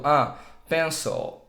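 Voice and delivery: pencil with a relaxed schwa, slowly; schwa demo. Shown as a demonstration. Teacher slowly modelling pencil with the schwa. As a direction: say pencil slowly, the second vowel neutral. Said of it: "você não vai falar pencil".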